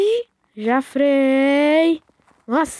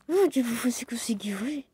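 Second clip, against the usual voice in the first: whispering; 2 semitones lower, 7 dB quieter than usual. Real, not acted. Sister whispers to him.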